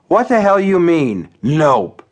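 put-on mildly outraged drunk; indignant. A narrator's reading. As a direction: demand an explanation, offended. Hugh protests the refusal.

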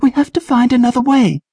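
high urgent shout. A narrator's reading. Trish shouting to Patrick mid battle, high urgent voice. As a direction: call out urgently.

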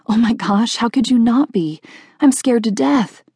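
put-on high-pitched, lightly Southern girl; soft Southern drawl. A narrator's reading. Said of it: "she said with a soft southern drawl".

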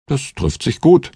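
lightly jest in high spirits; good-humoured joking. A narrator's reading. Joking to the ex-priest about a lucky meeting, good-humoured. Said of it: "scherzte ich gut gelaunt".

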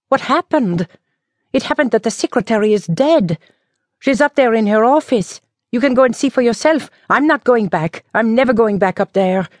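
put-on high, rushed, agitated old woman; frightened village woman spilling the news; panicked spinster. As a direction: blurt it out breathlessly in panic. Emilienne's panicked outburst.

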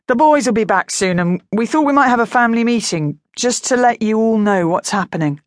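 forced positive. Acted. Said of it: "trying so hard to sound positive".

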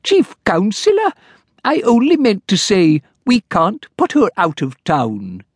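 high, fussy little clerk; timid clerk. Acted. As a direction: plead politely like a nervous clerk. Clerk character voice.

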